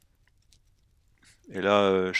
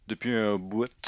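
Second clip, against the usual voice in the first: Québécois accent. Shown as a demonstration. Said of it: "c'est l'accent québécois".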